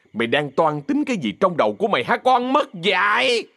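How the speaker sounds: high-pitched, acted angry tirade; furious yelling. Má Bảy explodes at Thắm and her mother, furious yelling. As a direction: rage at them, stretching the phrase ends. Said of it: "hét to".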